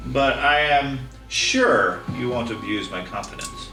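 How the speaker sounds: lightly voiced scheming nobleman; a hint of a villainous count; mustache twirling villain.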